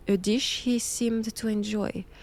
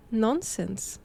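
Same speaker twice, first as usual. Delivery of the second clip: laughing; 2 semitones higher than usual. Acted. Mocking the word vampire.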